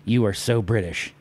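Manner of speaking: breathless whisper to himself; mock-awed whisper; whispered aside. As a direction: hush it under your breath, amazed. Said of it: "And I'm like".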